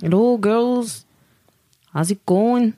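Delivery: playful Irish accent demo. Shown as a demonstration. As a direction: put on an Irish accent, a laugh creeping in. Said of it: "l'accent irlandais".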